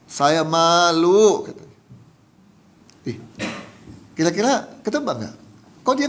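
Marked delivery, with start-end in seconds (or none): 0.1-1.4 slow, drawn-out, louder imitation of crying; retold tearful confession. Preacher repeating what the fire victim said, retold tearful confession. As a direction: stretch the last word, mildly acting tearful. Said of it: "sambil nangis".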